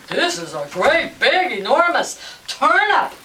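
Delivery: loud, emphatic exclamation; farmer's amazement. Acted. Farmer marvels at his giant turnip, amazed and loud. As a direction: marvel at the size, punching it out.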